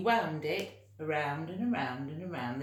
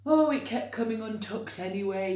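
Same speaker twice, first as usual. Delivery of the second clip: giant's cheerful aside; 3 semitones higher, 6 dB louder, faster than usual. Acted. George giving away shirt.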